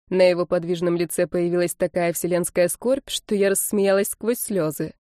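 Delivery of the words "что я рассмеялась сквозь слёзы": ordinary delivery, nothing marked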